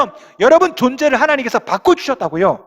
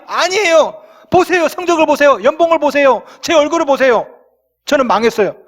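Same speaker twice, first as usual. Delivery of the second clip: higher, insistent whiny protest; whining protest; 4 semitones higher than usual. Retold or imitated. Believer protesting to God about grades, salary and looks, high whine. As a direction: stubbornly argue back.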